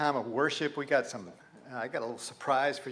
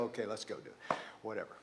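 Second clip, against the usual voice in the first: tired resignation; 7 semitones lower, 13 dB quieter, much faster than usual. Retold or imitated. Giving up on making sense.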